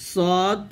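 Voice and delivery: "সদ" said thick and full, drawn out; emphatic Arabic sad on "সদ"; heavy letter. Shown as a demonstration. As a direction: fill the mouth on a long "সদ". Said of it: "সেটা হলো মোটা হলো সাতটা".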